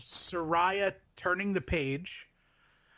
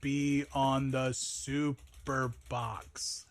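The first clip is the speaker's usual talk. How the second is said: announcer voice; 4 dB louder, much slower than usual. Pretend. Dramatic announcer question.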